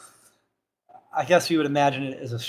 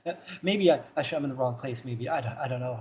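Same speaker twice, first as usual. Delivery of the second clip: put-on hesitant old man; 3 dB quieter, faster than usual. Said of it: "he kind of steps back, uh, hesitantly".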